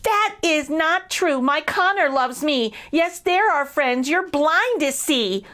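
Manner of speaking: high, earnest mouse pleading; high little mouse voice. Acted. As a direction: defend your friend in a small high voice. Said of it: "Small Elvin said".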